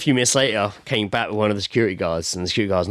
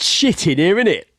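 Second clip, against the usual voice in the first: lightly voiced joker, pitched up; mock old-man banter; 5 semitones higher than usual. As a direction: act out a lad keeping the toilet joke going. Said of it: "sounds like a group of old men".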